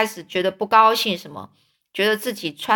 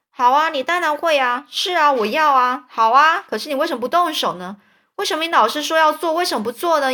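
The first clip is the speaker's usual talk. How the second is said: higher, sarcastic, quickening; goading taunt; 6 semitones higher than usual. Acted. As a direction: needle him faster and faster. Rival goads Tom.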